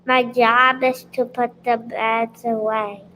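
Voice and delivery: clear, projected answer; speaking loud. Real, not acted. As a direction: speak out so everyone hears. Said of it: "speak loud".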